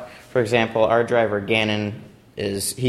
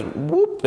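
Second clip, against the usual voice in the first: quick, higher whoop of a sudden hop; imitated "whoop". Robot suddenly hops forward, quick high whoop. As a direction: make a little jump sound effect. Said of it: "the robot goes".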